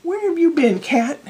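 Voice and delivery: put-on high-pitched old eccentric; old weirdo. Playing old weirdo to the cat, high-pitched voice. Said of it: "one of those old weirdo".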